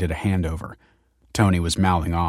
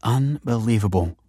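amused disbelief; 3 semitones higher than usual. A narrator's reading. Kelsey gives in about the fries, amused disbelief. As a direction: stretch it out in mock exasperation. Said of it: "laughed Kelsey".

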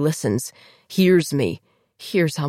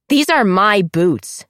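snarling; 3 semitones higher, 6 dB louder, slower than usual. Acted. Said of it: "Diana snarls".

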